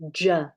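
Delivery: J said alone as a short "juh"; J sound. Shown as a demonstration. Bible narrator isolating the sound Hebrew lacked, J as "juh". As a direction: sound out the J as a bare consonant, "juh". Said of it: "they did not actually have that".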